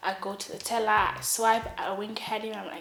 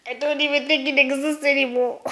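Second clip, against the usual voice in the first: loud, higher-pitched mock panic; hammed-up desperate protest; acted panicked outburst; 5 semitones higher, 10 dB louder than usual. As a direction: blurt it out loudly, voice pushed up. Panicked answer about the bottle.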